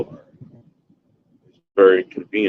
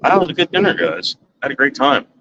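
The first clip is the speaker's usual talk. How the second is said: delighted; 7 semitones higher, faster than usual. Real, not acted. Praising dinner to viewers.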